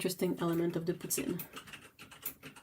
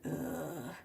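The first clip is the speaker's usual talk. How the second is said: fed-up ugh; 2 semitones lower, 11 dB quieter than usual. Retold or imitated. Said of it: "you're just like".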